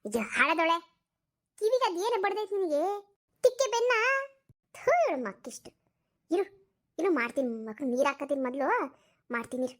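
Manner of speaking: grumbling granny barking for her towel; scolding old woman. Acted. (ಮುದುಕಿ ಜಯನನ್ನು ಬೈಯುತ್ತಾ towel ಕೇಳುವುದು)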